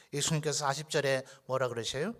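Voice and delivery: ordinary delivery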